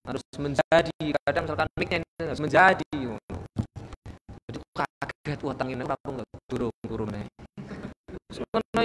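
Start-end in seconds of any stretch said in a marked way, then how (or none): 0.1-2.9 loud, rising delivery; louder intonation. Shown as a demonstration. Preacher demonstrating mic intonation, loud. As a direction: push the voice up into the mic. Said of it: "ada intonasi-intonasi tertentu".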